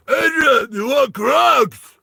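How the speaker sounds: high, loud, stretched-out holler; overacted bellow across a mountain; mock yell. Misheard climber hollering an offer to Adrian, mock yell.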